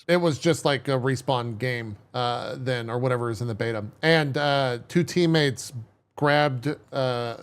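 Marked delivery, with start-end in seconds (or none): none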